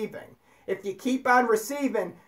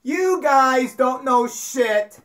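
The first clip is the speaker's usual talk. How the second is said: raised-voice mock exasperation; Jesus scolding; 3 semitones higher, 4 dB louder than usual. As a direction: scold clueless followers, stretching the words out. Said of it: "He's like".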